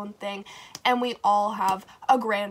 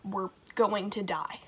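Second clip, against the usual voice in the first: whispered in hiding, softer; panicked whisper; 2 semitones lower, 6 dB quieter than usual. Retold or imitated. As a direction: breathe it so the guard can't hear.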